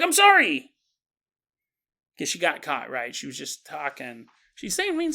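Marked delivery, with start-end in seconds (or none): 0.0-0.7 put-on high, meek old-lady sorry; mock sheepish apology. Great-grandma caught insulting, meek high sorry. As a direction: say it as if caught red-handed. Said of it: "She's like".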